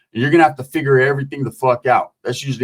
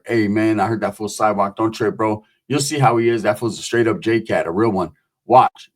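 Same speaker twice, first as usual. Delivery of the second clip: calm, knowing reassurance in a lowered voice; lightly voiced neighbor; 6 semitones lower than usual.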